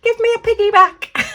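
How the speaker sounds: put-on high, childlike pleading voice; playful baby turtle. Baby turtle asking to ride on the others, high childlike. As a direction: beg to play like an eager little one. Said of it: "And this one's saying".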